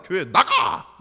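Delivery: acted-out bellow of dismissal; mock angry shout. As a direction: imitate a church bully shouting someone out. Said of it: "목소리가 더 크면".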